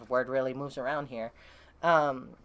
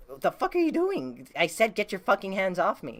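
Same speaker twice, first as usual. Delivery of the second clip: mildly heated, raised pitch; retold angry outburst; 3 semitones higher than usual. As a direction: act out telling someone to back off. Acted confrontation with soldiers.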